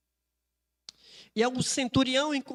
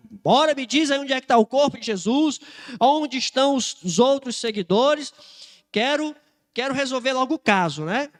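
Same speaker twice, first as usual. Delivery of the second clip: louder, pressing questioning; a touch of an agitated centurion demanding answers; nervous interrogator; 3 semitones higher, 6 dB louder than usual. Acted. Centurion interrogating Maria Madalena about the body, mildly nervous and pressing. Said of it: "e ele nervoso, andando pra um lado".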